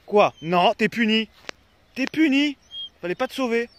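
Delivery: high playful mock scolding; mock scolding dog. Real, not acted.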